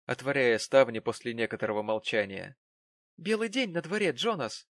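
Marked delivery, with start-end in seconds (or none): 3.2-4.7 lightly cheerful, higher voice. A narrator's reading. Wife greeting her husband with forced cheer. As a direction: brighten up to cheer him. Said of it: "весёлым тоном".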